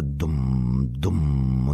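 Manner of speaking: low, resonant drum imitation; booming drum. A narrator's reading. Narrator echoing thunder from deep underground, booming drum imitation. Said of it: "Grzmiące".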